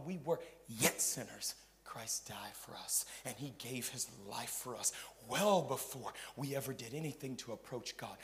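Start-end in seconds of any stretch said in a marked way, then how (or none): 1.8-8.1 hushed, soft confiding voice; whispered preaching. Acted. Preacher drawing the congregation close, soft whisper. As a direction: lean in and breathe it to them.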